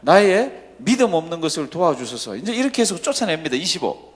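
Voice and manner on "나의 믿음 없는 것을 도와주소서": loud, slow retold outcry; crying out. Father pleading with Jesus for help, crying out. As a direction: call it out as a loud, drawn plea. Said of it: "뭐라고 고함을 지릅니까".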